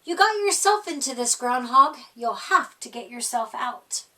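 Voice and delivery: quick, firm scolding; a touch of a stern owl. Acted. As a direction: lay it on him, no sympathy.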